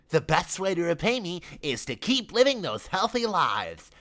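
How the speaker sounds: merry. Acted. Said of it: "said Richard merrily".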